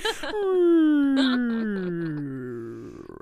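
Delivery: long falling whine of a toy breaking down; imitated crashing machine. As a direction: mimic a machine winding down, drawn out. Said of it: "it's like".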